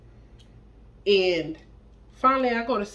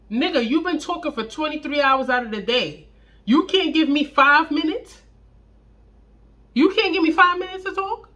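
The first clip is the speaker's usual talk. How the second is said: exasperated outburst; 6 semitones higher, 4 dB louder than usual. Retold or imitated. Exasperated at talkative boyfriend.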